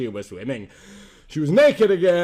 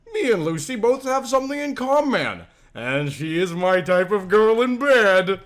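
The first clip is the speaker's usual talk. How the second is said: gloating father; 3 semitones higher than usual. Acted.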